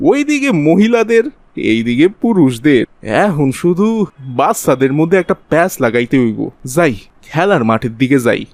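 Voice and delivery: ordinary delivery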